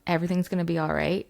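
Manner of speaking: whispered self-soothing, steady; calming herself. Retold or imitated. Alone in the flood, soothing herself in a hush. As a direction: talk yourself down gently. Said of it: "I had to center myself".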